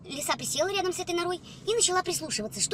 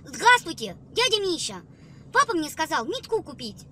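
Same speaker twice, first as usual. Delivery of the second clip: put-on boy's voice with a guttural burred r; burred r child voice; 2 semitones higher, 5 dB louder than usual. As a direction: chirp it with a rolled-back French-style r. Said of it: "своим таким картавым голосом говорит".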